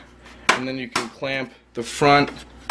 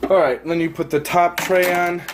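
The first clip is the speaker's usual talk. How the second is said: out of breath; 4 semitones higher than usual. Real, not acted. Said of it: "Sorry if I sound like I'm out of breath".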